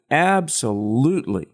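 ABSOLUTELY said with firm emphasis; emphatic ABSOLUTELY. Shown as a demonstration. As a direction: state ABSOLUTELY as a firm certainty. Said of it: "very emphatically".

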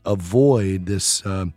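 scratchy, worn voice. Real, not acted. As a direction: speak through a scratchy voice. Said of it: "enduring my, uh, scratchy voice today".

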